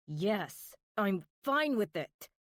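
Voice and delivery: words forced through gritted teeth; tight-jawed, teeth clenched. Acted. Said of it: "I say through clenched teeth".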